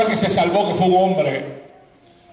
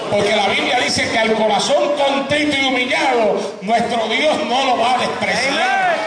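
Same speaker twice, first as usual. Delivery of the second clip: raised, ringing scripture proclamation; fervent preaching; 5 semitones higher than usual. Acted. Preacher assures the congregation of God's mercy, fervent preaching. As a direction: declare it to the whole congregation.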